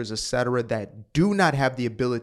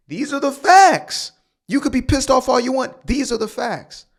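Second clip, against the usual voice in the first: angry shout; 11 semitones higher, 5 dB louder than usual. Real, not acted. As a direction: hammer it home, furious at the critics. Defiant rant at the audience.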